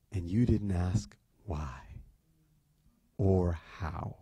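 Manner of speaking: slow, low, near-whispered disbelief; hushed incredulity. Retold or imitated. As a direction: let it sink to a slow, hushed reproach.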